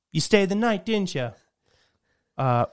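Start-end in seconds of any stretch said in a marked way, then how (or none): 0.1-1.3 higher-pitched retold accusation; mad mom. Mom confronts girl in son's room, mad. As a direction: imitate a mother catching someone out. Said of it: "she's just mad".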